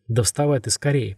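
ordinary delivery, nothing marked

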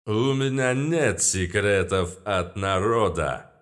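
grand, slow pompous exclaim; hammy stage actor. Acted. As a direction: declaim it like a showman. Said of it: "пафосно воскликнул он".

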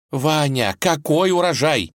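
high, near-tearful cry; almost crying. A narrator's reading. Vasilisa almost crying cries out at Vanya. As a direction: exclaim on the edge of tears. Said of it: "Чуть не плача воскликнула".

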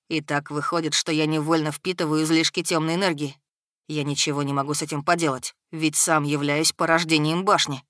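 put-on resigned young dark creature; troubled servant boy. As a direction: explain it soberly, pitched a little down.

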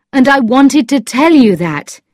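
earnest man's dialogue, read aloud; Lord Struve speaking. A narrator's reading. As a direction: voice him emphatically in storytelling.

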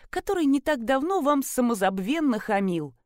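usual speaking voice

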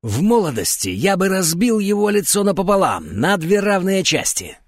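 choked with agitation, boasting; old man's voice catching with emotion; voice gone hoarse. A narrator's reading. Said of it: "от волнения у него сел голос".

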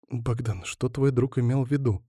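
soft, worried question; a touch of hushed worry to her man; quiet. Acted. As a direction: ask him gently, hushed. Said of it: "тихо заговорила она".

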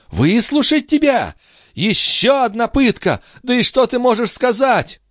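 high, indignant outburst; agitated, high-pitched questions; outraged retort. A narrator's reading. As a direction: throw it back at him scornfully. Furious reply to pleading Gilbert.

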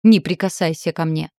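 громко, резко оттолкнуть словами; крикнуть, чтобы не трогал; гневный крик. Acted. Вырывается из его рук. (громко и гневно)

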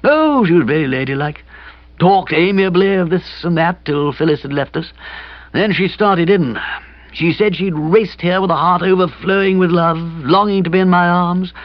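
put-on high, aggrieved young man retelling a row; hapless young friend. A narrator's reading. Kipper recounts his fiancée's outburst, hapless and aggrieved.

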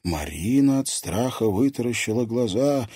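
ordinary delivery, nothing marked

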